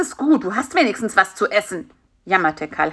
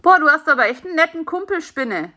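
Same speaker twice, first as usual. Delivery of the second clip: quick, higher-pitched relief; grateful little beetle, rushing it; relieved; 8 semitones higher, 3 dB louder, faster than usual. A narrator's reading. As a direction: gush in mild relief. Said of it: "sagte der Käfer erleichtert".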